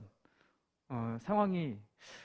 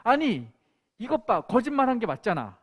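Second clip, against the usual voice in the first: higher, louder accusing shout; retold angry outburst; 5 semitones higher, 6 dB louder than usual. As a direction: call out the lie loudly. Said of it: "또 화가 난 거예요". (높고 큰 소리로 화내며)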